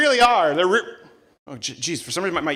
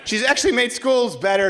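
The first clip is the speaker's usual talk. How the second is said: mock Michigander; slower than usual. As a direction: act out locals patiently defending her. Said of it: "everyone in Michigan is like".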